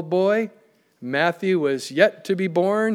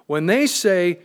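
"they" stressed, a little raised; 2 semitones higher, slower than usual. Real, not acted. Preacher returning to the verse about non-believers, stress on "they". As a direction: put the weight on "they". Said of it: "I emphasize the word they".

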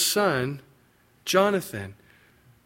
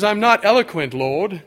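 mock English accent; 5 semitones higher, 5 dB louder than usual. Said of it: "Probably had an English accent".

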